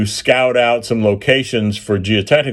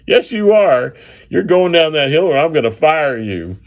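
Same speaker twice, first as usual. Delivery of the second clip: high, forceful boss threat; angry order; 6 semitones higher than usual. Retold or imitated. Boss threatening the helper who refuses, high and forceful. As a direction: snap back and threaten to fire him.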